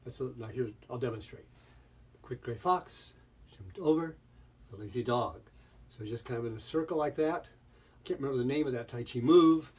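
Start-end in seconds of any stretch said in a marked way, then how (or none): 2.2-5.4 gentle swing up through "over", easing down to "dog"; flowing, fluid rhythm. Shown as a demonstration. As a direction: back off the stress, let "fox", "over", "dog" flow. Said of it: "of a flowing sense to it".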